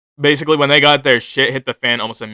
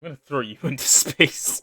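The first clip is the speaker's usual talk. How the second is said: laughing mock threat; 4 semitones higher, 3 dB quieter than usual. Real, not acted. Joking threat amid laughter.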